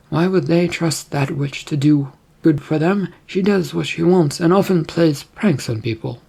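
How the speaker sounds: lightly voiced queen, sceptical; a hint of regal disapproval; questioning queen.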